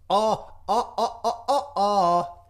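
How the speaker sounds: string of excited oh sounds; getting excited. Real, not acted. Host getting excited about the energy sector, eager oh's. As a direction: let the excitement bubble out in oh's. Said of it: "that's me getting excited".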